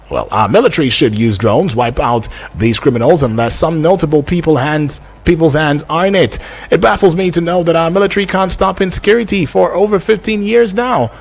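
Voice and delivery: presenter reading a text message; reading listener message aloud. Real, not acted. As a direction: read a listener's question out on air.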